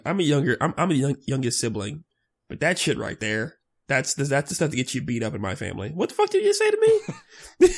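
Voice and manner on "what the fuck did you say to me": high, shouting challenge; mock angry shout. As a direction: yell it like a sibling picking a fight. Mock family fight threat.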